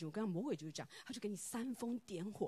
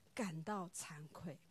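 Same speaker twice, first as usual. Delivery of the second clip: hushed, slow, breathy admission; ashamed whisper; 4 semitones lower, 6 dB quieter, much slower than usual. Real, not acted. Preacher confessing her shame to the congregation, whispered.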